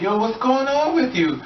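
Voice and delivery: high, slow, drawn-out mock alarm; alarmed man, imitated. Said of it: "they're like".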